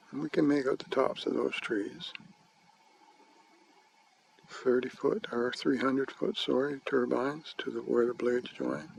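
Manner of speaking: talking while holding the camera steady; shaky handheld. Real, not acted. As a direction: voice jolted by shaking. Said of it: "Sorry for the shaking".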